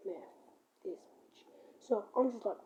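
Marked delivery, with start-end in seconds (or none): 0.1-1.4 muttered under the breath, much softer; mumbling. Retold or imitated. Walking off from the boy, muttered insult. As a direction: grumble it to yourself as you walk away. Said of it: "I hear him mumbling".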